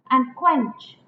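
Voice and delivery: "And" unstressed, "quench" stressed. Shown as a demonstration. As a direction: scan it as an iamb landing on "quench". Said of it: "and is unstressed".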